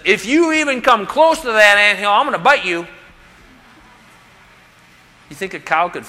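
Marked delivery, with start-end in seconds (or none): 0.0-2.9 mock tiny ant yelling up, louder; an ant threatens the cow, mock yell. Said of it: "the ant yells up to him and says".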